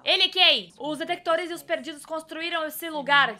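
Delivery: normal talking voice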